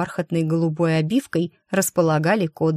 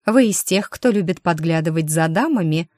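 mocking. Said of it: "одарив насмешливым взглядом".

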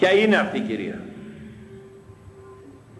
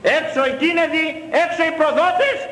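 furious shout; 11 semitones higher than usual. Real, not acted. Priest shouting traitors out of his church, furious shout. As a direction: cast them out of the church with a roar.

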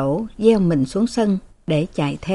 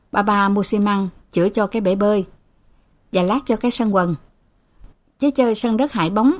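gentle coaxing. Acted. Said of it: "lấy lại giọng dịu dàng". (giọng dịu dàng dỗ dành)

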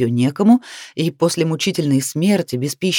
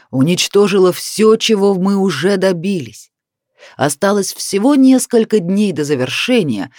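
hateful accusation. Acted. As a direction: spit out the blame with hatred. Villain accuses her with hatred.

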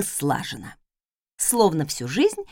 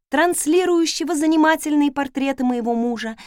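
plain reading voice

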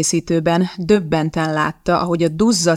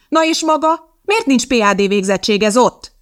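a much higher, sharp comeback; retort; 5 semitones higher, 3 dB louder than usual. A narrator's reading. Fresk hits back at Zott with a high, sharp retort. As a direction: turn the attack back on her. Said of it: "vágott vissza Fresk".

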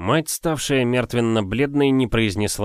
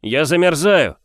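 pleading stranger; 7 semitones higher, 6 dB louder than usual. A narrator's reading. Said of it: "пробормотали снаружи".

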